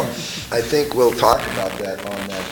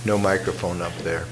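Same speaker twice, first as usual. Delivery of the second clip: frog voice. Real, not acted. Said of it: "forgive me for my frog voice".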